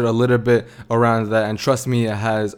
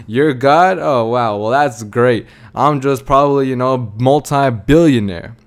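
mock scoff building into a grumbling rant; sarcastic rant; 4 dB louder than usual. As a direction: imitate a fed-up cobbler scoffing at God. Cobbler scoffs at God, then rants.

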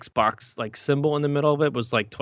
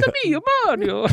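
put-on much higher, squeaky kid voice; high son voice; 5 dB louder than usual. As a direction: squeak it like a little boy. Son character voiced in a joke.

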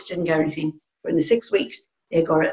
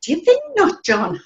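sharply higher, mock-surprised "Do you think not, John?"; teasing, pitch jumping way up on "think"; sarcastic retort; 12 semitones higher, 3 dB louder than usual. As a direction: toss it back with a high scoffing lilt. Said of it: "I goes".

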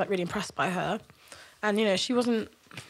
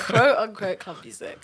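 air quotes. Real, not acted. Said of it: "doing the air quote thing".

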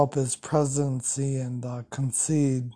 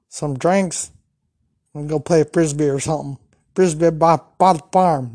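excited joking; 2 semitones higher, 6 dB louder than usual. Real, not acted. Joking about a southern date.

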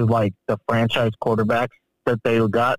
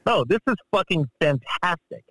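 higher-pitched mock change of heart; playfully gushing, pitched up; retold delight; 5 semitones higher than usual. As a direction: act out being suddenly won over. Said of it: "And then I'm like".

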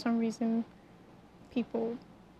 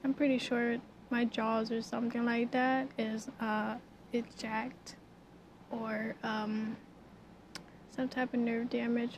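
talking through jaw pain; 3 dB quieter than usual. Real, not acted. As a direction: stiff sore jaw, mouth barely opening. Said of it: "I can't open my mouth all the way".

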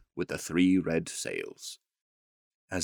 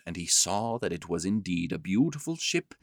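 usual speaking voice

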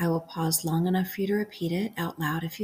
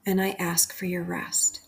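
calm, unhurried prayer with long pauses between phrases; guided prayer meditation. Acted. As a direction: lead a bedtime prayer, leaving room to repeat each phrase. Leads a bedtime guided prayer.

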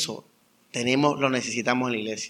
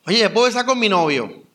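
put-on young member asking; 6 semitones higher, 3 dB louder than usual. Voices a young man asking.

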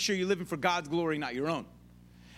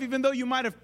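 ordinary delivery

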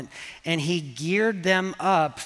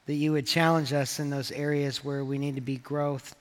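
prayer; 3 semitones lower than usual. Acted. Pastor leads congregation prayer.

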